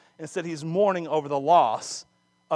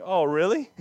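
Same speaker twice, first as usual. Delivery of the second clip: sarcastic thought; faster than usual. Retold or imitated. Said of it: "I don't know if David's thinking".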